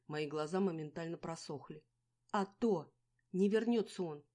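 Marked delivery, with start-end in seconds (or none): 2.3-4.2 loud blunt retort; angry snap; harsh retort. A narrator's reading. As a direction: slap her with the truth. Angry quarrel.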